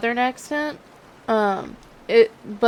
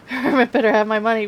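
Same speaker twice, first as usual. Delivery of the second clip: laughing; 4 dB louder than usual. Real, not acted. Joking about tarot card.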